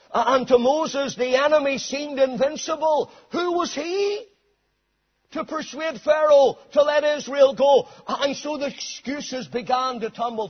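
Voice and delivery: ringing, rolling sermon delivery; full-force preaching. Real, not acted. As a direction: preach it with building momentum.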